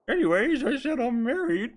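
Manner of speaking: high, loud, booming villain impression; Bane voice. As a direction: announce it in an exaggerated Bane voice. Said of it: "I'll do, like, a fucking Bane voice".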